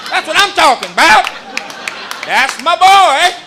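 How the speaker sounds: put-on high, loud old man mishearing; hammed-up grandpa; deaf grandpa. Grandfather mishearing his grandson's words. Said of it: "he's like".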